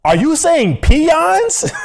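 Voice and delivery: high, slow mock disbelief; incredulous retold question. Friend baffled by the word pins, high incredulous question. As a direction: stretch it high and slow into laughter.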